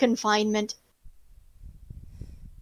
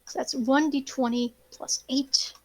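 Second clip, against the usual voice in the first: whispering; 6 dB quieter than usual. Real, not acted. GM muttering roll under breath.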